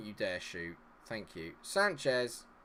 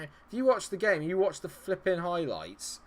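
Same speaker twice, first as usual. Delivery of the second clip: ordinary delivery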